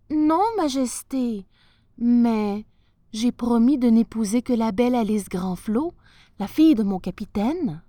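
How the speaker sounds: a lad protecting his friend; lightly voiced youth, urgent and loud; pleading young sailor. Henri answering the sultan.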